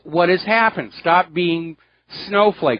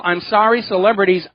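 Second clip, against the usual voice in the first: ordinary talk, nothing marked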